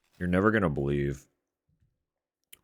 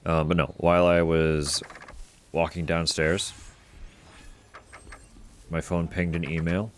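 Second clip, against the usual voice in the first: excited; 3 semitones higher, 5 dB louder than usual. Real, not acted. Excited news about her order.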